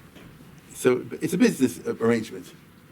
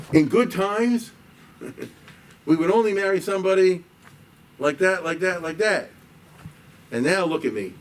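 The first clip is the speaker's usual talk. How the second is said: lament; 6 semitones higher than usual. Retold or imitated. Lamenting lost status.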